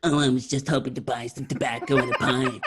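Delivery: laughing mockery of the line; mocking echo. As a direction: player at table laughingly parrots the request, mocking echo. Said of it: "mocking repeat with laugh".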